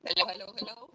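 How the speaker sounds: calling from across the room; far from mic. Real, not acted. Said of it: "sounds like you're across the room".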